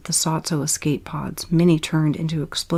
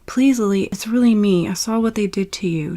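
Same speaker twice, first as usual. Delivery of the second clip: pleading cry; 3 semitones higher than usual. Acted. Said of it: "Jeremy cried".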